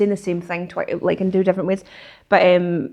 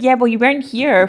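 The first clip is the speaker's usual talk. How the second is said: imitating a passive-aggressive posh student, slightly higher; mock a put-out, passive-aggressive complaint; 4 semitones higher, 3 dB louder than usual. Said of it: "is the passive aggressiveness".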